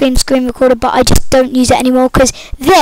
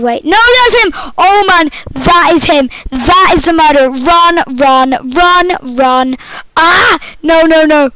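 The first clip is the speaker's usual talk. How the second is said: being chased; 2 semitones higher than usual. Real, not acted. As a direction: yelp while running away. Fleeing the murderer in game.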